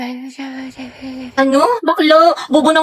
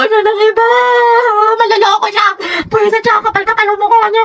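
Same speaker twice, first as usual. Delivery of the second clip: higher-pitched outraged complaint; indignant rant; 8 semitones higher than usual. Acted. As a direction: vent about the two-timer. Ranting about a cheating guy.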